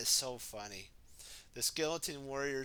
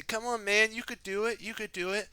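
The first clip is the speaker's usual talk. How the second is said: high, eager encouragement; encouraging; 7 semitones higher, 3 dB louder, faster than usual. Acted. Kai coaxing scared Jay past his fear, high eager cheer. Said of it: "Kai's helping him say".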